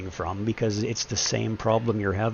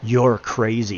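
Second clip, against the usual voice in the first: confrontational; 6 dB louder, slower than usual. Retold or imitated. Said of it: "She didn't come at me with".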